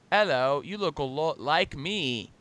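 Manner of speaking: put-on a half-hearted British accent, slowed; mocking an actress's patchy British accent; a lightly put-on British accent that slips in and out; mock bad British accent. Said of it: "she would talk in an accent, but, like, only half of the words were".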